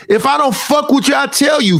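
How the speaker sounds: angry shout. Real, not acted. Streamer ranting at viewers, shouting angrily. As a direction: yell it at the haters. Heated rant, shout measured.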